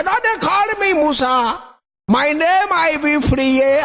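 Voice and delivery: high, slow, insistent mock Ijaw; high insistent Musa voice; acted Musa, Ijaw pride. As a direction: puff up as a proud Ijaw man.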